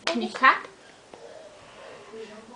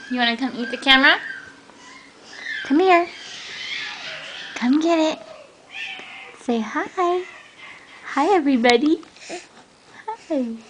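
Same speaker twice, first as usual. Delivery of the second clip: louder cheery coaxing; 4 semitones higher, 4 dB louder than usual. Real, not acted. Coaxing baby to camera.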